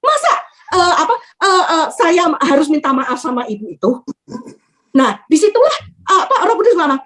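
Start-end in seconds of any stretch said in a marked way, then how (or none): 0.0-3.9 indignant protest, half amused; retold anger. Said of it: "Saya terus terang marah". (protes tak percaya, setengah geli)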